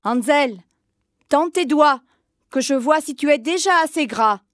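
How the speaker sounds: lightly voiced witch. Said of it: "la sorcière allait à la porte de la grange et disait".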